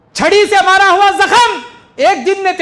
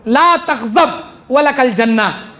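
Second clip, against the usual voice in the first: slow recitation; 3 semitones lower, slower than usual. Acted. Reciting the hadith again.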